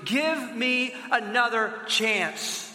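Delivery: slow, begging plea for mercy; mock pleading. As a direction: plead slowly, as if on your knees. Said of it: "he just pleads with him".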